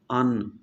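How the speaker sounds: "अन" with the tongue edge pressed to the palate on the N; demo of the sound. Shown as a demonstration. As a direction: end "अन" on a held N against the upper palate. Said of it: "नून को साकिन करें".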